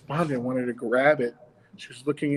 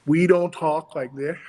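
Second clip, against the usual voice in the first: slow, a bit louder, each word a jaw flap; flapping jaw demo; 6 dB louder than usual. Shown as a demonstration. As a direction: show the wrong puppet way, chopping every word. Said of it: "We talk with our bottom jaw drops".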